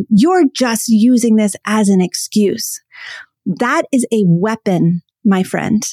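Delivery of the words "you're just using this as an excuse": dismissive, demeaning. Retold or imitated. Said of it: "dismissive, demeaning, diminishing way say".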